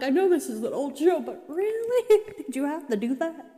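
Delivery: high incredulous whine breaking into laughter; half-laughing complaint at the writers; retold mad protest, laughing; mock outrage. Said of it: "I was so mad".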